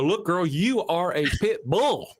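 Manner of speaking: pep talk to dog. Pretend. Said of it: "show her a mirror and go".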